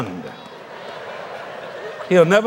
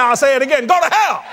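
retold retort; 8 semitones higher than usual. Preacher retelling his retort.

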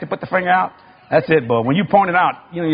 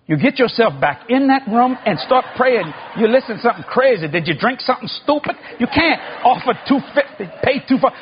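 imitating an exasperated wife, pitched up; mock scolding; 6 semitones higher than usual. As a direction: tell him off in a high, insistent voice. Wife scolds husband, acted.

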